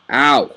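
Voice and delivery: sudden yelp of pain; real ow from a jammed finger; sharp pained ow. Real, not acted. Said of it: "Sorry if I'm wincing".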